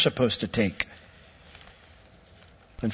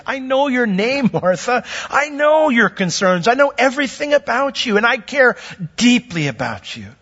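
tender Jesus voice; 8 semitones higher than usual. Retold or imitated. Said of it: "by saying her name, he's emphasizing".

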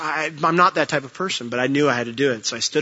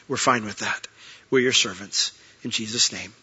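earnest, steady prayer voice; closing prayer. Acted. Pastor praying over his congregation to close the service, earnest prayer. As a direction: pray over the church sincerely.

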